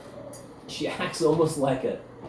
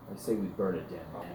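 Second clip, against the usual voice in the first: low grumble; 6 semitones lower, 8 dB quieter than usual. Acted. Cecil growls low.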